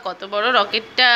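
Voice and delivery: slow hushed playful awe; mock amazement. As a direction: act amazed at the big rocket for the child. Mother admires toy rocket for child.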